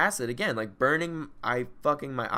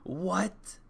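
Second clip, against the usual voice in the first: alarmed; 7 semitones higher, 5 dB louder, much slower than usual. Retold or imitated. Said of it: "and I'm like".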